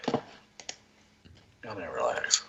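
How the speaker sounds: slow, low put-on drawl. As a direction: drag it out in a lazy put-on voice. Repeats the "relax" joke.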